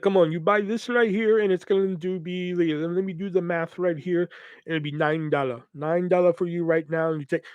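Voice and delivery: lightly voiced kiosk haggler; a hint of a coaxing salesman; salesman imitation. Kiosk seller closing a nine dollar deal, lightly imitated coaxing. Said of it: "that's literally how he's talking".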